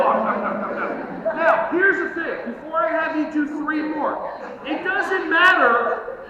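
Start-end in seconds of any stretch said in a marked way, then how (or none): 0.1-1.3 bear munching noise. Shown as a demonstration. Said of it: "and come up and go".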